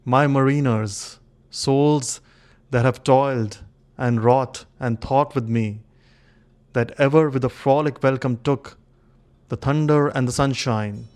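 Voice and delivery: measured, solemn poetry reading with long pauses; stately dramatic recital of an old king's monologue; poem recitation. Acted. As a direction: recite it as verse, phrase by phrase, leaning on key words.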